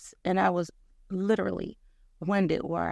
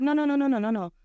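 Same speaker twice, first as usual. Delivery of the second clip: high, louder repeated no; firm refusal; 7 semitones higher, 4 dB louder, faster than usual. Retold or imitated. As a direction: refuse firmly, playful. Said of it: "He was like".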